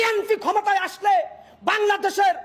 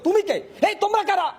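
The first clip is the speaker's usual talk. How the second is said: imitating an indignant demand, slightly raised; reported outburst, a touch higher; retold angry challenge; 4 semitones higher than usual. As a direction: fire off the quoted questions with mock anger. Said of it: "রাগান্বিত হয়ে বলেছিল".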